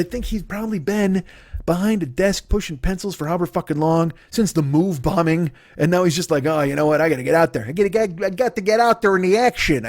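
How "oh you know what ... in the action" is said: mock Philly accent. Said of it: "I can't do a fucking Philly accent".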